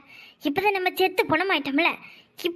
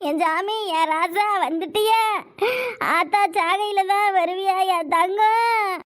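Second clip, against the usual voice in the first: mock wail; slower than usual. Dead aunt wails at brother.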